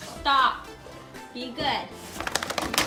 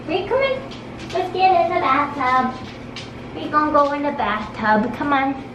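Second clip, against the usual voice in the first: coaxing a dog; 4 dB louder than usual. Real, not acted. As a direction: coax the dog into the tub.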